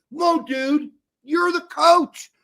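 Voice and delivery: slow, loud and high; exasperated yell. Real, not acted. Berating the coach for losing control, slow, loud and high. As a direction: hammer it home at the coach.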